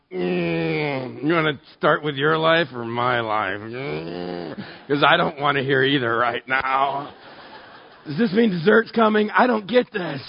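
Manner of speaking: mock groaning reluctance; awkward dread. Guest stuck at a table where people share, mock groaning dread. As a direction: squirm through it with exaggerated unease. Acting his discomfort at sharing.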